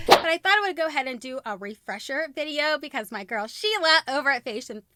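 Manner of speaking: usual speaking voice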